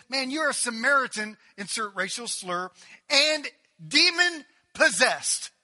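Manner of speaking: loud jeering taunt, slowing on demon possessed; mocking accusation. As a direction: hostile crowd yelling an insult. Crowd hurls insults at Jesus.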